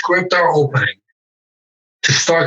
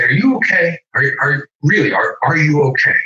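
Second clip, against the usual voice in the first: "Are you okay?" pressed, leaning on "you"; insistent concern. Shown as a demonstration. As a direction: keep pushing "Are you okay?" with weight on "you". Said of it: "I'm gonna stay on that".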